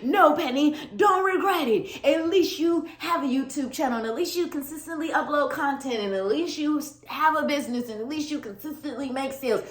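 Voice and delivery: high, quick pep talk to herself; hammed-up self-encouragement. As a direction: cheer yourself up like a coach. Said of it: "But then I'm like".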